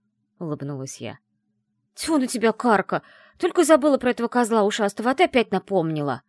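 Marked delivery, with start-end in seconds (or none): 1.9-6.2 louder and fast, scoffing in annoyance; snorting scoff. Acted. Ayala scoffs at her friend for the reminder, louder. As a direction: brush it off with a loud huff. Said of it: "фыркнула Яла".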